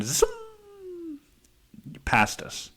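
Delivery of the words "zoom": zoom sound. Retold or imitated. Car racing past them.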